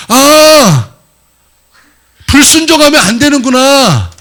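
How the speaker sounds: high, loud cry of sudden understanding; excited realization. Acted. 깨달은 아브라함이 큰 소리로 외치듯, high and loud. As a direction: let it dawn on him and ring out.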